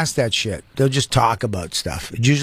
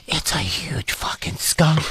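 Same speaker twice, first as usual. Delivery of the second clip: retold, slow whisper; 3 dB quieter, slower than usual. Friend whispering about the skunk under the tent, slow whisper. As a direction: hush it so the skunk won't hear. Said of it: "He's like".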